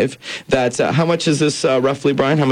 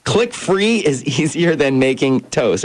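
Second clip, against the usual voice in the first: laughing; 3 semitones higher, slower than usual. Shown as a demonstration. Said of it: "That's right".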